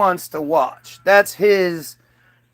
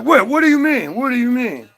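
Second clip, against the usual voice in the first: a higher, startled mock protest in a put-on voice; imitating an upset guy; 5 semitones higher than usual. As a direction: play the rattled debater, half-hammed. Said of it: "And he gets all upset".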